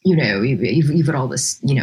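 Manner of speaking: low, stuffy mock-British murmur; lightly put-on British stuffiness; pseudo-British accent. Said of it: "because pseudo British means".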